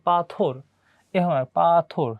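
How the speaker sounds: পাথর drawn apart as পা-থর to show the থ; syllables picked out. Shown as a demonstration. Teacher points students to the থ in the word, পাথর said syllable by syllable. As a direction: stretch পাথর so the থ stands out. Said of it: "কোথায় আমাদের থ আছে".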